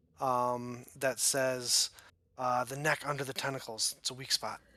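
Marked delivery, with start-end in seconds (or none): 2.4-4.6 small, tiny voice heard right next to the ear. Narrating a game, speaker voices a voice heard beside the listener's ear: little voice in your ear. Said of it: "You hear a little voice in the back of your".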